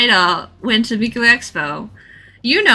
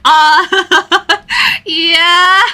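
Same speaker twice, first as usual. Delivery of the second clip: high, laughing, embarrassed answer; bashfully laughing yeah; flustered laughing yes; 9 semitones higher, 6 dB louder than usual. Retold or imitated. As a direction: giggle out an awkward yes. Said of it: "And I was like".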